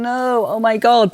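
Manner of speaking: drawn-out mock horror at old medicine; aghast. Reader horrified by Victorian medicine, slow aghast cry. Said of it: "The medicine just had you going".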